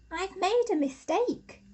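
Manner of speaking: a touch of a badger admitting his mistake; understated regretful badger; Pete realising. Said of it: "he started to think".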